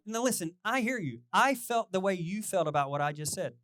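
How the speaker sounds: an eager runner talking a skeptic round; eager reply. Retold or imitated. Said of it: "and we were like".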